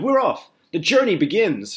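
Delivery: very high, loud triumphant shout; shouting centipede. A narrator's reading. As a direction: announce the start of the journey. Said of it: "shouted the centipede".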